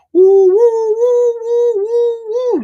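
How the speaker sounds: high, loud, slow woos; hype woos. Acted. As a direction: whoop like an MC hitting the stage. Host bursts in hyped.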